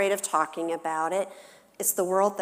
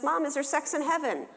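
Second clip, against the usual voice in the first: daughter's question; 9 semitones higher than usual. Retold or imitated. Mom voices daughter's question.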